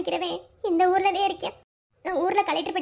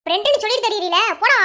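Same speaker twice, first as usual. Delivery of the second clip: scolding; 7 dB louder than usual. Acted. Scolds him and sends him off.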